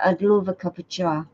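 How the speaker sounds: looser, flowing British accent attempt. Shown as a demonstration. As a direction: let the British accent flow lightly. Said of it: "trying too hard to put the accent on".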